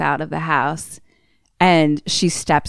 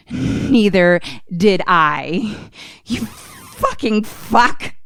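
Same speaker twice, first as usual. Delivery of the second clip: slow contempt; 3 semitones higher, much slower than usual. Retold or imitated. Grace answers Alex with contempt.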